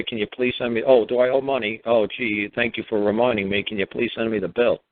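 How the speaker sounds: playing dumb. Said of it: "Can you just say".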